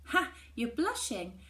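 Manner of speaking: slow, playful laughing tease; teasing. A narrator's reading. Mallory teasing her friend about Alberic.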